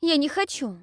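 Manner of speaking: high, loud, scared protest; frightened refusal. Acted. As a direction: cry out in fear. Heroine refuses the drink again. (испуганный отказ)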